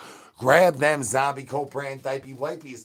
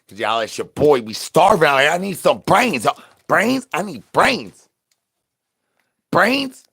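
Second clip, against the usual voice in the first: loud, high zombie begging for brains; hungry zombie yelling for brains, pitch climbing; zombie calling for brains; 3 semitones higher, 8 dB louder than usual. Acted. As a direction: shout up at the crowd for brains.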